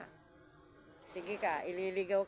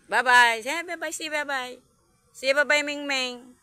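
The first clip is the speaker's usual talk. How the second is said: high coaxing; 4 semitones higher, 14 dB louder than usual. Real, not acted. Making the cat say bye.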